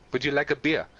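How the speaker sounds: mock German accent, offering politely; heavy German accent. Bar patron offers a newcomer a beer, German accent. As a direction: ask it with a put-on German accent. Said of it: "with a heavy German accent".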